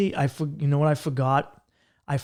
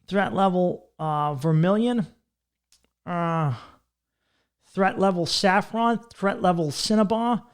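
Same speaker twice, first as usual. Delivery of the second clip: higher, slowed announcer listing colors; ridiculous announcer; 4 semitones higher than usual. Retold or imitated. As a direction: savor each fancy color name. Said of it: "They were like".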